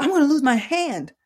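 loud, high mock distress; upset and frustrated. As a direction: wail it like a frustrated patient, imitated. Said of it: "he was just upset and frustrated".

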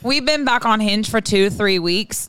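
put-on Irish accent sliding towards Scottish; wandering Irish accent. Podcaster reading a dating email, wandering Irish accent. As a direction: read in an unsteady mock Irish lilt. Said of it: "this accent's going all over the place".

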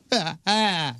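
imitated panicked gasp. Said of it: "if I could put an audible sound".

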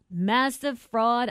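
a hint of Trump, slow and drawn out; half-hearted stab at Trump, stretching the words. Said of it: "I'm trying to do a Trump".

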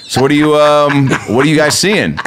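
too chummy small talk with a stranger; forced eager chat. Retold or imitated. Overeager small talk to celebrity.

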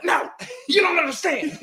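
very high, laughing imitation of protesting; mock-frantic protest. Fan rebuffing everybody saying calm down, mock-frantic protest. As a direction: squeal the protest through laughter. Acting own heated reply to calmers.

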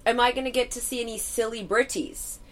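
lightly imitated Kiwi question; hint of New Zealand vowels in the quote; New Zealand accent. Kiwi friend asking about stars, light New Zealand accent. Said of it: "his friend said".

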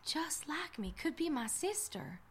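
unvoiced whisper, just like me; whispered realization. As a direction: breathe it in shock.

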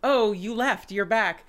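excited greeting. Retold or imitated. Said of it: "there was the excitement of".

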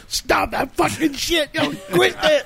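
high, slow mock rant; imitating angry Sean. Sean cursing at the winning team, high mock yell. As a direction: play the fuming opponent yelling across the net. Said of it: "And Sean was going".

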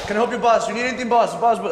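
eager helper calling boss; upbeat shop clerk offering help; customer service voice. Retold or imitated. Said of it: "siempre lo decíamos así".

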